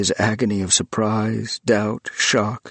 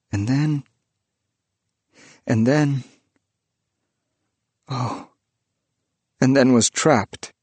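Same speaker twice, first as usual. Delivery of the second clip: lightly voiced trembling ghost; 3 semitones higher than usual. Trembling ghost confessing to the priest how it got trapped. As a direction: tell your story like a frightened spirit.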